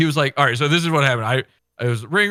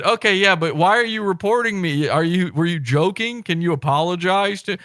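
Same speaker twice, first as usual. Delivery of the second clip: reasonable pleading; 6 semitones higher than usual. Retold or imitated. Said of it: "And I said".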